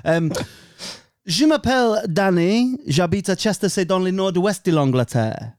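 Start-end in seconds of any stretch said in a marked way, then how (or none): 1.3-5.5 French sentences. Shown as a demonstration. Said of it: "it's all coming back to me".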